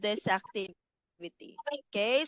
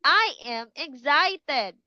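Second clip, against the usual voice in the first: bright, raised I am excited; 3 semitones higher than usual. Shown as a demonstration. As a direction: show them excitement. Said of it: "You will say".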